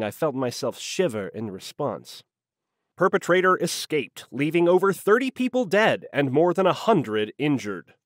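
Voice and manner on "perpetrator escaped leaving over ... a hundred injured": slightly raised news-report voice; droning news voiceover. A narrator's reading. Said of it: "the voiceover droned into my office".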